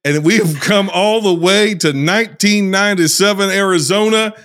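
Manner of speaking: put-on Southern US accent; Southern drawl accent. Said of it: "I'm working on this accent".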